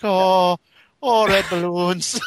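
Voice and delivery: high, loud mock ecstasy; building towards climax. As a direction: moan it slowly, hammed-up and rising to climax. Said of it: "as you build towards climax".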